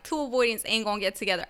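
quick, light Southern replay; Southern accent. Shown as a demonstration. Podcaster replaying their own slip, Southern accent. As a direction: repeat it briskly with a Southern twang. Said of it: "that sounded so damn Southern".

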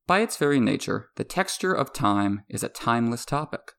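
measured, emphatic read with deliberate pauses; scripted essay narration. Real, not acted. Podcaster reading an essay on time and memory to listeners, formal narration. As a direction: deliver it as a composed, projected voiceover.

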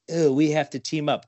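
big goofy monster voice. Pretend. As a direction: growl it like a kaiju. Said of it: "'cause that's my monster voice".

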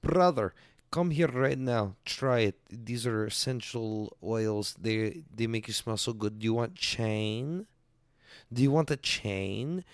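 lightly mimicked Asian-accented mall seller; mock Asian accent, calling out then pitching; put-on Asian accent. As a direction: hawk it in a rough Asian accent. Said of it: "That's the best Asian accent I can do".

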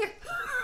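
high squealing laugh; burst of laughter. Real, not acted. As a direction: crack up laughing. Laughs at own joke.

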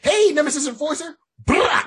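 cartoon cheer cut short; mock greeting. Cobra Commander greeting the Nemesis Enforcer, mock cheery. Retold greeting then a hit.

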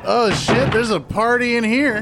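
lightly voiced vampire Laszlo; a hint of a pompous vampire; Laszlo impression. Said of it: "That was my Laszlo impression".

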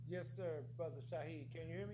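distant, faint remote caller; sounding far away on the line; far from mic. Real, not acted. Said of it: "Sounds like you're far away".

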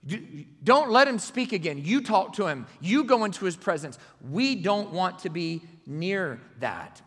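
loudly voiced frightened people begging Moses; pleading shout. Frightened Israelites begging Moses, loud pleading. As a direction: cry it out as a terrified crowd.

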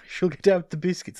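laughing repeat. Real, not acted. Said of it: "That was actually pretty funny".

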